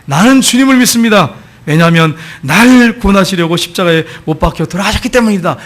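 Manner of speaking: retold cry of faith; loud declaration. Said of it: "세 번째 외쳤습니다".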